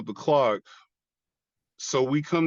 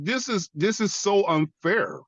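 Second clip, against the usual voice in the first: higher, anguished complaint; retold tearful protest; 8 semitones higher than usual. Veteran crying out to God, hurt protest. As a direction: protest the injustice in a raised, hurt voice. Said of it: "I'm sitting up here crying".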